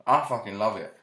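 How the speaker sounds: eating while talking; mouth full. Real, not acted. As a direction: talk through a mouthful. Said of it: "I got banana in my mouth".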